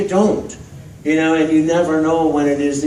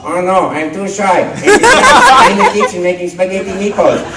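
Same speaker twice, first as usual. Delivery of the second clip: shy Luigi; 5 semitones higher, 6 dB louder than usual. Retold or imitated. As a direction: play Luigi as too shy. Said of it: "And I go".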